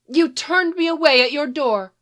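lightly voiced haughty sorceress; haughty enchantress. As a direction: say it with your nose in the air. Enchantress scolds the boy.

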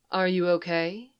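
soft, soothing question; calm a lost child gently; gentle, low and soothing. Acted. Leia gently asks a lost girl, low and soothing. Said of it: "she asks gently, her voice low and soothing".

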